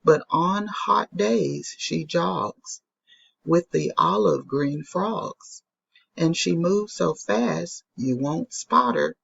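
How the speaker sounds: put-on rhythmic poem read to children. Shown as a demonstration. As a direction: read the rhyme with a bouncy beat. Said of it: "And it says".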